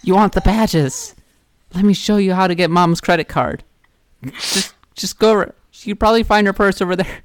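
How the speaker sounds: sly shady dealer voice; secretive raspy sales murmur. Pretend. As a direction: tempt the kid like a con man. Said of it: "the bunny will be like".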